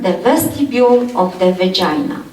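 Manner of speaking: vestibule given clear weight; stressed key term. Shown as a demonstration. Lecturer tells students to remember this, stressing vestibule. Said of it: "So remember this term".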